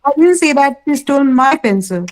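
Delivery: weight falls on "my"; emphatic "my", rest even; stress on my. Shown as a demonstration. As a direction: lean on "my" before "pencil". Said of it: "My was emphasized".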